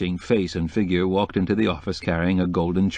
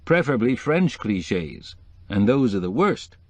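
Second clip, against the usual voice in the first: a hint of a chatty society decorator; lightly voiced decorator; 3 semitones higher than usual. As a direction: lightly play the opinionated decorator.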